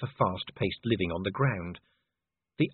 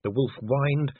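ordinary delivery, nothing marked

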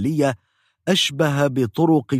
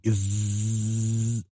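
drill buzz; 6 dB quieter, much slower than usual. Retold or imitated. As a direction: drone like a dental drill. Drill again.

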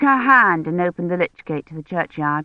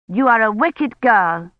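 bossy sister Rosamond, scolding; 4 semitones higher than usual. Acted.

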